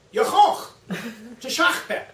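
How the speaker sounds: villain bellowing a command; commanding shout. Retold or imitated. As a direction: shout the kill order. Actor delivers the Klingon command.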